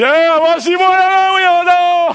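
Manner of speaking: high, loud shouted call; loud driver's call. Retold or imitated. Driver calling the narrator to the front, loud. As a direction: yell it from the driver's seat. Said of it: "il dit".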